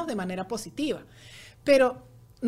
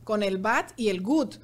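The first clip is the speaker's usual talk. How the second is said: lento y didáctico. Shown as a demonstration. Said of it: "es la manera que ella entiende".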